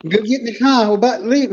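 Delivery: high, imitated Boston friend; Boston accent. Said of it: "my first experience with Bostonian".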